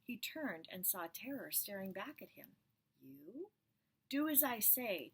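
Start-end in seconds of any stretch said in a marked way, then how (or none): 3.0-3.5 high, hushed "You?"; startled gasp. Acted. Potter realizing his horse speaks, high and hushed. 4.1-5.1 firm, louder order; horse's command. Acted. The horse Terror ordering the potter, firm and louder. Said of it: "Terror commanded".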